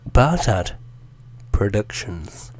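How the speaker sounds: slow, separated words; deliberate repeat. Shown as a demonstration. Repeating the channel name into the mic, deliberate. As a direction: say each word slowly and apart.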